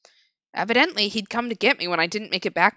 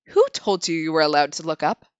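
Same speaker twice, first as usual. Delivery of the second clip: stern scolding woman; 5 semitones lower, 5 dB louder than usual. Acted. Scolding woman voiced in story.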